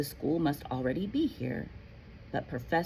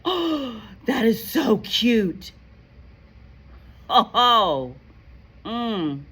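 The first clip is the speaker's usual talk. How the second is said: gasp, then gush high over something cute; delighted gasp; 5 semitones higher, 6 dB louder, much slower than usual. Real, not acted. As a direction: coo over the cute thing. Teacher gasps at student's item.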